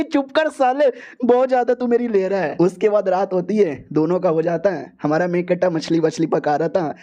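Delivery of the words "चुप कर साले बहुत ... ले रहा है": put-on irritated girl. Girl snaps at teasing.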